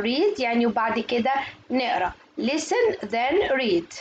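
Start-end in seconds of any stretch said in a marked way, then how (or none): 2.4-3.9 slow, word-by-word teacher delivery; slow model reading. Shown as a demonstration. Teacher reads the exercise heading to young learners, slow modelling. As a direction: space out each word for learners.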